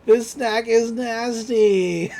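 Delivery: high, slow mock-grossed-out cry; hammed-up yuck over a bad chip; Mako's disgust. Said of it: "She's like".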